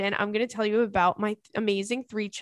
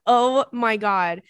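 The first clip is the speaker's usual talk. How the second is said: amused gasp; 7 dB louder, much slower than usual. Real, not acted. Laughing reaction to cat names.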